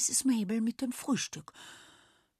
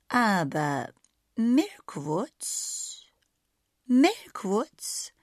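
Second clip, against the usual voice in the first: dawning excitement; 3 semitones higher, 5 dB louder, much slower than usual. A narrator's reading. Sausi realizes where they are, rising excitement. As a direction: let the idea grow as you repeat it.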